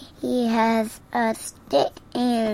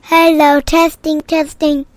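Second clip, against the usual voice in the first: mic check; 4 semitones higher, 11 dB louder than usual. Real, not acted. Kid testing the microphone loudly.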